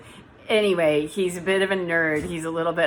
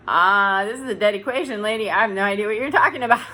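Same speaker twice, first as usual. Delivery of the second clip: dismissive listener voice; 3 semitones higher, faster than usual. Retold or imitated. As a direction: brush it off like a baffled listener. Voicing a confused listener.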